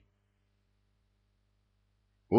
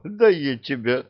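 louder, high threatening snap; mock threat in a squabble; 6 semitones higher, 5 dB louder than usual. A narrator's reading. Threat in a quarrel. (угроза в перебранке)

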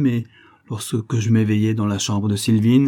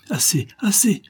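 supplique aiguë et bredouillée; le tyran maté implore, piteux; bredouiller, piteux; 11 semitones higher than usual. A narrator's reading. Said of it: "bredouillait-il". (Mourambal, vaincu, bredouille qu'on le lâche)

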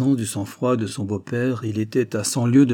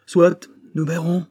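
furious; 8 semitones higher, 6 dB louder than usual. A narrator's reading. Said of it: "D'un geste furieux".

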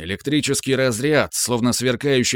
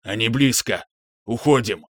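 dark lord. Acted. Monster warning.

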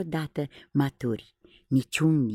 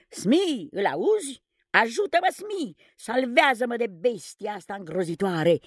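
much higher, panicky begging; a cowardly captain begging for rescue; terrified pleading; 8 semitones higher than usual. Acted. Captain Hook begging Smee to save him from the crocodile, terrified. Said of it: "îl imploră Hook".

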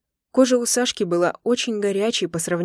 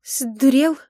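higher, louder moaning protest; moaning, stammering; 6 semitones higher, 5 dB louder than usual. A narrator's reading. Wife moaning protest at husband, higher and louder. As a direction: groan it out, breath catching. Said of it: "простонала я, заикаясь".

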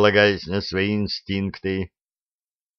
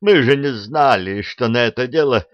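wailing plea; 5 semitones higher, 4 dB louder than usual. Acted. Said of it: "взвыл атаман".

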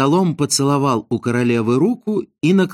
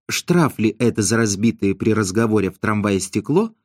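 ordinary delivery

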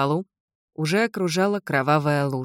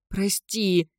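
higher, plaintive apology; moaning; 4 semitones higher than usual. Acted. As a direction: moan it pleadingly. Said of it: "простонала девочка". (жалобный стон)

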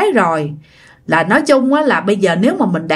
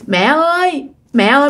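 put-on small child voice; 2 semitones higher than usual. Ghost child calling its mother, light toddler voice. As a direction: sound like a toddler calling mom. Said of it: "mà nói giọng con nít nha".

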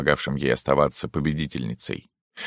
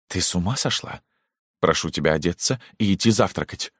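irritated; 3 semitones higher than usual. Acted. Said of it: "ответила раздражённо".

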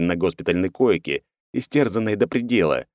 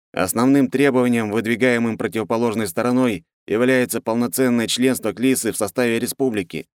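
higher, timid report; nervous young counsellor; 5 semitones higher than usual. Acted. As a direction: report like a scared official.

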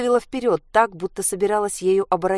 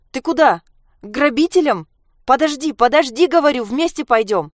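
anxious calling; 7 semitones higher, 5 dB louder than usual. Acted. Mother calls after daughter.

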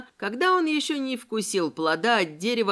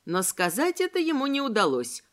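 usual speaking voice

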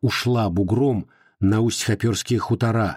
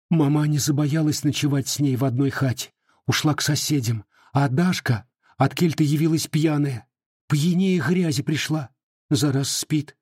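shaken tearful witness; 4 semitones higher than usual. Acted. Сестра рассказывает о расправе.

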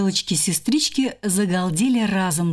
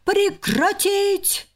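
slow, much higher bellow; roaring order; 11 semitones higher, much slower than usual. Acted. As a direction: halt the fight with a yell. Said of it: "заорал Пашка".

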